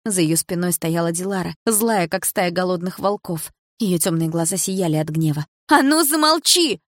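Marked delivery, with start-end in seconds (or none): 5.7-6.8 slow, high, loud bark; barking order. A narrator's reading. Dilara ordering Milana to shut up, barking. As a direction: snap her into silence. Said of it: "рявкнула Айдарова".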